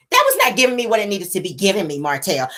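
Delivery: a hint of a male voice. Shown as a demonstration. Retelling Mel's line to Martell, male voice. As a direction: say it as a man would. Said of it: "I gotta say it in male voice".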